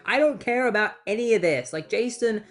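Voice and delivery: defensive protest. Acted. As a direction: insist on your innocence. Ronnie defensively argues with Stein.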